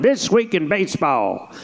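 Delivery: vintage baseball announcer's show intro; Mel Allen. Shown as a demonstration. Announcer opening his baseball show, old-time style. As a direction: intone the title like an old announcer. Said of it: "there was a guy named Mel Allen".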